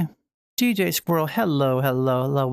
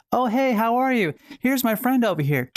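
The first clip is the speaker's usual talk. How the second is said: higher-pitched, cheery hello; chirpy mock greeting; 6 semitones higher than usual. Streamer imitating someone greeting a friend in VR, chirpy. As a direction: act out a perky social greeting.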